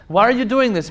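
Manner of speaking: loud, high demanding why; rhetorical challenge. Pretend. Preacher confronting the crowd over their excuses. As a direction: challenge the listener hard.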